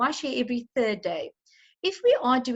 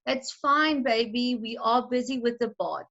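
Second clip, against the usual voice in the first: nice louder pitch voice. Shown as a demonstration. Mother comforting her crying baby in the bath, soothing raised voice. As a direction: reassure the crying baby, lifting the voice a little. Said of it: "talk in a nice, louder pitch voice".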